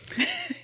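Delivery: sudden high-pitched laugh; high squeal of laughter. Real, not acted. Laughing at her own retold dinner story, high squeal. Laughs after quoting friend.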